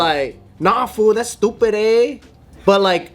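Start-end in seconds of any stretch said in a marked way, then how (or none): 0.6-2.2 higher-pitched Chinese-American take on Chicano slang; Chinese accent, Mexican slang. Acted. Imitating Chinese kids who learned English from Mexicans, Mexican-slang accent. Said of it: "they have a Chinese accent with Mexican slang".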